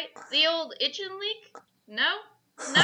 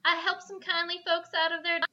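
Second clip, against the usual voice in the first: Southern belle voice; 3 semitones higher than usual. Acted.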